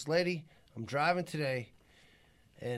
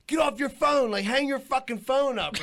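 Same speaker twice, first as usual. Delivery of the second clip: retold scolding yell; 4 semitones higher than usual. Re-enacting his yell at driver.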